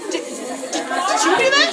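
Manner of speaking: stammering, rising to high; a frightened orc, words catching. Acted. Orc asks the player who attacked, stammering in fear. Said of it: "orc looks back at you like".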